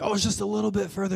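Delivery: high, soft, quick encouragement; mock reassurance. Hikers descending tell climbers it's close, reassuring. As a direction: lightly coax them onward.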